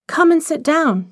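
high eager call; eager cry. Acted. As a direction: sweep her guest toward the fire. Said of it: "she cried".

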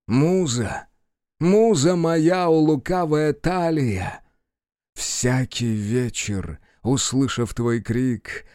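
slow, stretched-out declamation; theatrical verse recitation. Acted. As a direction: recite grandly, drawing out each phrase. Actor recites verse to the king.

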